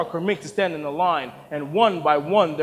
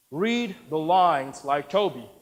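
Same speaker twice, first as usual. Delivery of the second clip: insistent; slower than usual. Acted. Director repeats the order.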